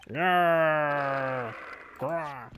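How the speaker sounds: tiger growl. Acted. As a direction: growl like a big cat lurking.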